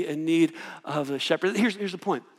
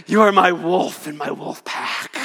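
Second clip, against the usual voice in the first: slow, loud, grand proclamation; hammed-up divine voice; mock grand God; 3 dB louder than usual. God booming to his followers, mock grand.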